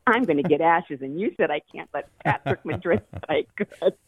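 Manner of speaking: a light smirking, told-you-so tone; mildly smug, smiling voice. Retold or imitated. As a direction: gloat a little, smiling through the words. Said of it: "with this smirk on my face".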